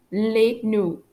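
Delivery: French "les no" ending on the vowel; silent final letters. Shown as a demonstration. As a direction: end "no" openly, without D or T. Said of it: "I don't pronounce the letters D and T".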